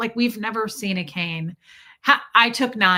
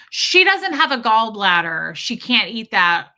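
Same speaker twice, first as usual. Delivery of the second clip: mom announcing; 6 dB louder than usual. Retold or imitated. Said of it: "my mom will be like".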